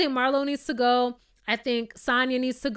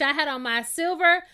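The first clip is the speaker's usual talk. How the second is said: voicing Monyetta; 5 semitones higher than usual. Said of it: "And if I was Monyetta".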